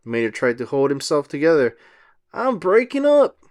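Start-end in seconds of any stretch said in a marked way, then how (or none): 2.3-3.4 high, alarmed wail; a falling pilot's yelp; alarmed cry. Acted. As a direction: cry out as you fall apart. Mater falling apart mid-air.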